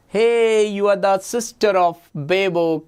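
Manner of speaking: playfully calling out to someone; playful hailing. Pretend. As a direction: hail an imaginary friend. Teacher hails imaginary Miss Carbo.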